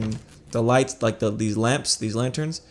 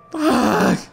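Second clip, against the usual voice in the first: pained yelp; 5 dB louder than usual. Real, not acted. Pain from laughing.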